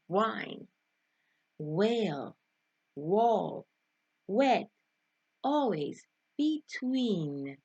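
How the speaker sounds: Wine, whale, wall, wet, always, between, each with a rounded w; careful separate words, w clearly rounded; demonstrated W sound. Shown as a demonstration. Teacher reading out the W word list, careful rounded w. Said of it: "Look at these words".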